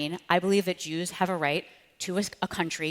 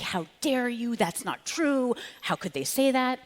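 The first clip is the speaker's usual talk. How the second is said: huffy; 6 semitones higher, slower than usual. Retold or imitated. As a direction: replay your offended outburst, half laughing at it. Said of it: "And I got so huffy".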